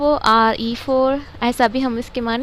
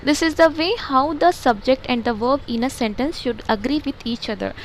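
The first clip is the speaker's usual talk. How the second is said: slow textbook reading; much slower than usual. Shown as a demonstration. Teacher reading the textbook aloud to pupils, slow and deliberate. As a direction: read each English word slowly and evenly, like dictation.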